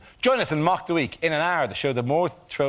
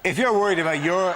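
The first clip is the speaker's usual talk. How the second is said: laughing; 4 semitones higher than usual. Real, not acted. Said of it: "you're just dragging it out for us".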